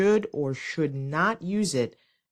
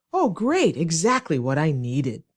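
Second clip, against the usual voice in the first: sarcastic; 3 dB louder than usual. Shown as a demonstration. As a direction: thank them with obvious sarcasm. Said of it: "say the sentence sarcastically".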